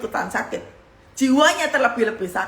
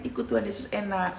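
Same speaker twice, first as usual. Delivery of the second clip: ordinary talk, nothing marked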